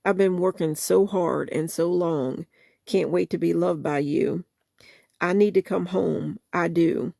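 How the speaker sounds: soulful spoken-word recital of a love song; spoken-word lyric reading. Acted. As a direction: read the song words with feeling, half-performed. Reads song lyrics aloud.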